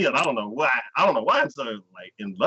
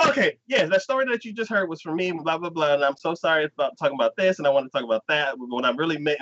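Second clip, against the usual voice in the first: lightly voiced smooth radio host, starting high; like radio staff; 3 semitones higher, faster than usual. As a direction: imitate someone suddenly at ease on air. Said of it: "like, she works there".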